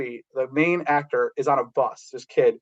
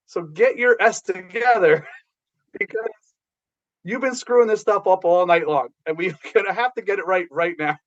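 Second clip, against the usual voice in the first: laughing through the speech; 4 semitones higher than usual. Retold or imitated. Woody laughs mid pep talk.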